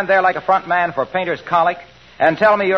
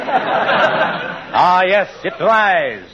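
drawn-out theatrical repeat; slow hammy stage actor; much slower than usual. Acted. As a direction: savor it slowly, stagey. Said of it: "the biggest ham".

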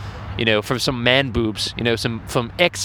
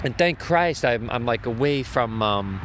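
softer, hushed so passers-by won't hear; speaking quietly so nearby people can't hear; keeping it down; 6 dB quieter than usual. Real, not acted. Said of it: "just enough away from all the people going by so they don't fucking hear me".

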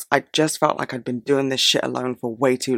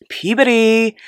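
mock pubescent squeak; 10 semitones higher, 5 dB louder, slower than usual. Jokes about voice breaking.

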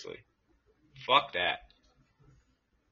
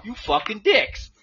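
retold yell; 12 semitones higher, 5 dB louder, slower than usual. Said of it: "be like".

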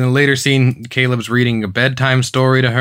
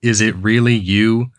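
drugged-out, listless line delivery; Jesse Pinkman; 4 semitones lower than usual. Retold or imitated. Podcaster mocking how the actor greets Maeve, ketamine-dazed. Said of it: "as if he is on ketamine".

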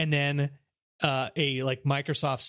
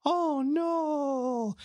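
high, put-on scared kid voice; kid in monkey mask; 12 semitones higher than usual. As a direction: squeak it like a cartoon kid. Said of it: "the kid in the monkey mask is like".

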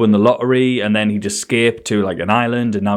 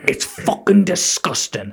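higher, slow bitter line; mock self-disgust; 6 semitones higher, slower than usual. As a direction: spit it out slowly. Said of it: "She went".

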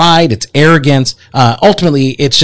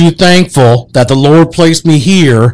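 light Southern cowboy accent, mock lawman. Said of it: "have a Southern accent?".

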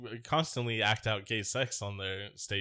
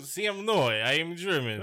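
put-on German accent; 6 semitones higher than usual. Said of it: "He had to do a German accent".

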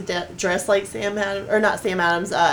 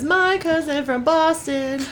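put-on Boston accent; 6 semitones higher, slower than usual. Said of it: "it says".

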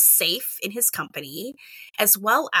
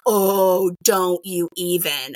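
drawn-out teacherly warning; a mock stern scold to a kid; playful teacher telling off; much slower than usual. Teacher scolding kids in quote.

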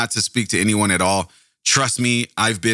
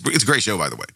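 ordinary talk, nothing marked

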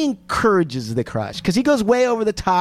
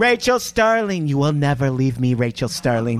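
creepy stalker; 6 semitones lower than usual. Pretend. Mocking the boyfriend's full-name habit.

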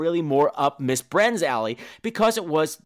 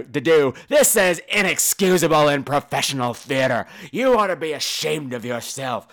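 louder, indignant mock tirade; retold angry rant, moderately louder; mock angry patron; 3 dB louder than usual. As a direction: scold like an outraged theatergoer. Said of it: "He's like".

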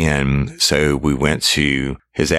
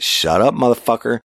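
high, emphatic cut-off; retold angry silencing; 9 semitones higher than usual. Officer silencing suspect's denial, retold angry cut-off. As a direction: shut him down, pitched well up.

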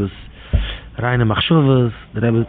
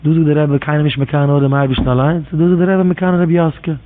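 retold challenge; 2 semitones higher than usual. Questioning the Rebbe about envying Rebbe Joske, challenging. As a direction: confront a teacher with his own contradiction, pitch climbing.

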